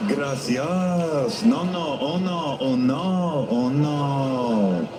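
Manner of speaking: Spanish words in a light mock Japanese accent. Comic trying Spanish on a Japanese waiter, mock Japanese accent. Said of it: "Spanish in a Japanese accent".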